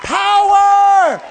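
rising to a loud, slow shout on released; preaching shout. Real, not acted. Preacher shouting to the church that power is released. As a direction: proclaim it with full force.

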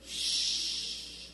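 soft unvoiced shh; hushing shh. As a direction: hush the blind man. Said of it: "that's what they were telling this blind man".

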